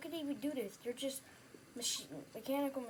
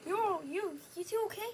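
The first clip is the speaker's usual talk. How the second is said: raised, high call to strangers; 7 semitones higher, 6 dB louder than usual. Acted. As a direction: call out to them across the street. Calling to found survivors.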